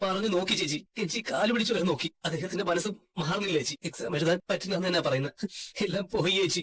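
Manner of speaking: pleading through tears; despairing, on the edge of crying; tearful. Acted. Younger brother confessing defeat to his sister, tearful. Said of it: "കരയില്ലടാ".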